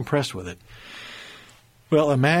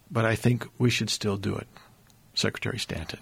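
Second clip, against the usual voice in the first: retold calm reply, a bit softer; 2 semitones lower, 4 dB quieter than usual. Lincoln answers his angry secretary calmly. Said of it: "And Lincoln very calmly says".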